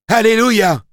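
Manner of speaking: high, loud shout of praise; congregation response. A narrator's reading. A member of the little troupe answering the preacher, high shout. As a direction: cry it out from the crowd. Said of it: "renchérit l'un des membres de la petite troupe".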